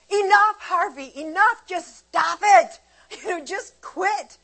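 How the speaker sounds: high, loud exasperated scolding; retold scolding. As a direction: snap at him, voice way up. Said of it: "And then I lost it".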